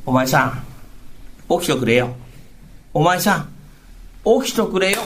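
lightly voiced wife, coaxing him up; husband's wife rousing him for work, lightly voiced; wife waking her husband. Rakugo wife wakes husband.

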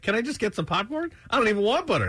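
impatient customer. Retold or imitated. Impatient customer voiced in story.

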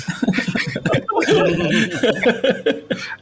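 muffled breathy giggle; giggle, trying to hold it in; stifled giggles. Real, not acted. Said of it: "André, para de rir".

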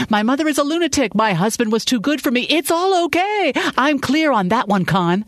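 high-pitched, hurt and angry outburst; bitter tirade. A narrator's reading. Woman listing how she has been wronged, furious and hurt. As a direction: build the accusations, dragging each bitter okay.

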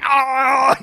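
a short high mock scream of the swallowed midget. A pelican's victim yelping from its mouth, mock scream. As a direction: yelp as if caught in a beak.

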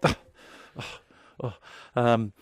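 put-on light Italian accent, eager and coaxing. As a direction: beckon like a pushy Italian salesman. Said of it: "am I allowed to do an Italian accent?".

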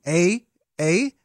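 light mock Canadian "eh"; Canadian accent. Shown as a demonstration. Showing the co-host the GM's accent, light Canadian accent. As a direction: toss out a playful Canadian "eh". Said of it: "little bit of Canada".

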